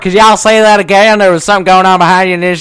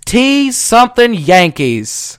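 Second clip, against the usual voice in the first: put-on Southern accent; 5 semitones higher, 3 dB louder, slower than usual. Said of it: "Diego hates Southern accents".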